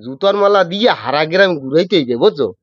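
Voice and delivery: Barishal dialect, calling out to a passer-by; lightly voiced Barishal villager scolding a thief. Shown as a demonstration. Host asks for Barishal dialect, guest calls out in Barishal dialect. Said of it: "কিন্তু বরিশালের ভাষায়".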